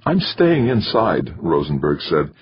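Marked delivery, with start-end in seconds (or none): 0.1-1.3 slow, slightly shaky; understated tremor; quavering slightly. A narrator's reading. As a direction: hold back the fear, barely. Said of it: "his voice quavering slightly".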